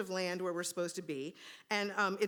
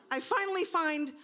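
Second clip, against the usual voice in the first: laughing; 8 semitones higher, 3 dB louder than usual. Real, not acted. Laughing while telling.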